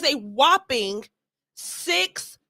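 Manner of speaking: slow, drawn-out mock amazement; sarcastic. Real, not acted. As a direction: stretch out the number with sarcastic weight. Sarcasm about a low view count.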